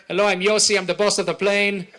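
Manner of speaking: swagger through the announcement like the boss of the plane; brash Israeli pilot. Retold or imitated.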